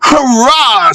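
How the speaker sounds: a little engine's triumphant hurrah; joyful cheer. Acted. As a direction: cheer with relief. Engine catches Henry in time.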